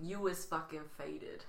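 put-on voice. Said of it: "say it in that voice".

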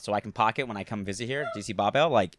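lightly hammed-up East Coast accent; Jersey accent. Playing a kid from the block, light Jersey accent. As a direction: lay on a little Jersey neighbourhood accent. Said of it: "sound like you're from, from New Jersey".

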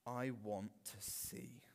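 slow, half-whispered earnest request; a touch of breathy, drawn-out longing; hushed plea. Acted. Blind man answering Jesus, hushed plea.

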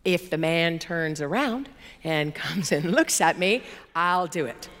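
slow, measured bargaining, acted out; bargaining with God. Preacher replays her deal with God, slow bargaining. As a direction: lay down terms slowly, voice a little low. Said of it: "so the bargaining begins. This is me".

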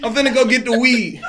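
laughing. Real, not acted. Loud laughing arrival greeting.

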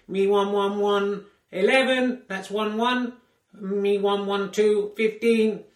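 slow, stiff robotic score reading. Pretend. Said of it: "over to Robot Voice for the score".

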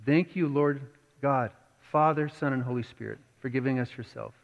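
steady, earnest prayer voice; closing prayer. Acted. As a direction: lead the church in thanks.

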